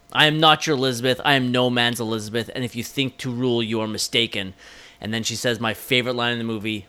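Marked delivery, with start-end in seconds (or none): 0.1-4.5 lightly voiced defiant queen; a hint of a queen refusing her suitor; understated royal defiance; imitating Cate Blanchett. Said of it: "continue imitating Cate Blanchett".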